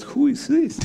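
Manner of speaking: high, laughing question. Retold or imitated. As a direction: ask it while laughing. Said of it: "I said".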